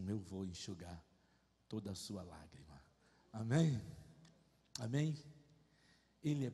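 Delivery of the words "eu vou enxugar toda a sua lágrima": tender divine promise. Retold or imitated. God comforting him, tender.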